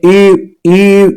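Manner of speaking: ई said as a thin, rounded ü, lips pushed forward; rounded ü vowel drawn out twice; fine ü sound. Shown as a demonstration. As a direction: say ई as the pinyin ü, not a plain ee. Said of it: "इसको बारीक पढ़ते हैं".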